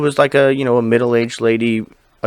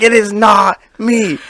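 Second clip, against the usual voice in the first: retold pleading; 7 semitones higher, slower than usual. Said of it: "I'm like".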